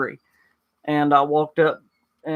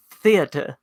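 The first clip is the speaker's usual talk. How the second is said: THEATER as "THEE-uh-tuh", British; British accent. Retold or imitated. Volunteer lady repeats herself to the pastor, British accent. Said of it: "must have been from Britain".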